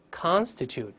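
"constitute" with full "kahn" at the start; stressed first syllable. Shown as a demonstration. Teacher showing the stressed prefix, stressed first syllable. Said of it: "但重读是con".

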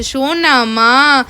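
very slow, stretched-out pet name; affectionate child imitation. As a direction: draw it out like a doting child. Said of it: "ওর না বেশ আদর করে ডাকে".

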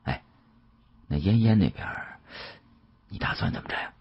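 hushed, sinking to a whisper; sly half-whispered question. Acted. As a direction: keep it down so no one hears. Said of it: "压低了声音问道".

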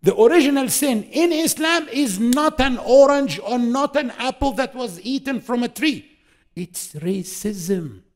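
high, loud sermon climax; fervent preaching. Acted. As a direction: drive the point home to the crowd.

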